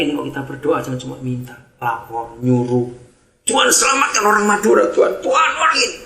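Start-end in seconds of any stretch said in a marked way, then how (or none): 3.5-6.0 bossy demanding prayer, pitched up; mock a lazy, bossy prayer; a hint of a pushy, whining prayer. Shown as a demonstration. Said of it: "Harusnya doanya gini".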